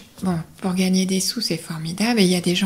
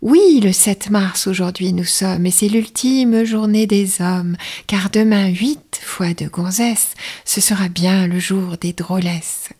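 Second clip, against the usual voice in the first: perkier, a bit louder verse reading; jaunty announcer read of the rhyme; more sprightly; 4 dB louder than usual. Shown as a demonstration. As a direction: put some sparkle and bounce in it. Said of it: "Alors, plus pimpant".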